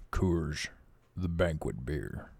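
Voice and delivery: low, slow ad-voice imitation, not quite there; Sam Elliott impression. Imitating a beer ad to his viewers, low and slow. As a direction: try for a deep cowboy pitchman and fall short. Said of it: "Sam Elliott".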